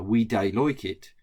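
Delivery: light Black Country accent on "we dey like it"; Wolverhampton accent. Shown as a demonstration. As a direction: say "dey" for don't, Wolverhampton style. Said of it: "in a Wolverhampton, uh, or Wolverhampton or Black Country accent".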